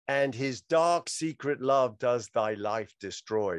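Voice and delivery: poem recital. Acted.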